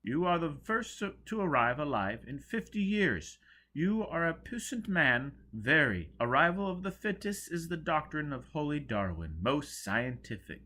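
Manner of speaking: high, loud preacher-like praise; grand pronouncement. Acted. Joseph praising Foyle as a fit survivor. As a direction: preach it like a zealous elder.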